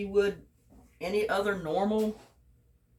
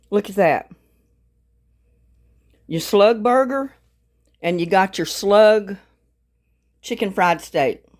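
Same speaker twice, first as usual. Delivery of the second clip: louder, eager sales-pitch enthusiasm; excited pitch; 8 dB louder than usual. Real, not acted. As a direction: sell it to the viewers with gusto. Excited pitch for the cheap dish.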